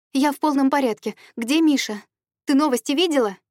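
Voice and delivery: urgent near-yell down a bad line; almost shouting. A narrator's reading. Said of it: "Почти кричала я в трубку". (почти крича в трубку, выше и громче)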